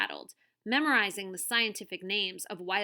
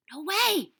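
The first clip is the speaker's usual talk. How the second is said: high, loud protest; indignant refusal; 11 semitones higher, 7 dB louder than usual. Acted. Tuna refuses to be left behind, indignant. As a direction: refuse outright, pitched up.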